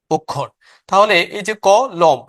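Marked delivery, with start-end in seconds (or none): 1.7-2.2 ক, then লম as one unit; syllable by syllable. Shown as a demonstration. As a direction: split it into ক and লম, two syllables. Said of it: "লম একটা একসাথে আমরা উচ্চারণ করছি". (ক আর লম আলাদা অক্ষরে উচ্চারণ)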